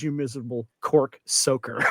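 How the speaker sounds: lightly voiced accented grumble; Roman Moroney. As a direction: toss out the insult in a foreign accent. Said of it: "he says".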